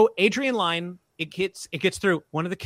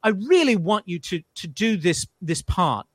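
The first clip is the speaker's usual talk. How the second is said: loosely imitated British director; bad British accent. Director apologizing to the upset kid, rough British accent. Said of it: "I'm not doing a good British accent now".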